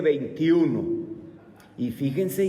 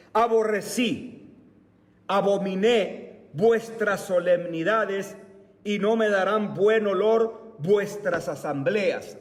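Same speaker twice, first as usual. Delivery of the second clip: scripture reading; 2 semitones higher than usual. Acted. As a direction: read the verse out with solemn weight. Reads scripture aloud.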